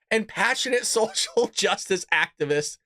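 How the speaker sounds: reading on with laughter in the voice; trying not to laugh. Real, not acted. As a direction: push through the phrase while holding back laughs. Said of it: "I can't even get this out without laughing".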